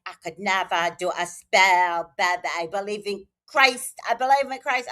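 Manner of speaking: put-on weak African accent; a half-hearted African accent imitation. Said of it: "I'm not doing the African accent very well".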